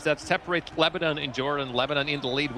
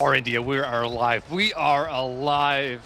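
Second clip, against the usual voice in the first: excited cheer; 4 dB louder than usual. Real, not acted. Celebrating the comeback.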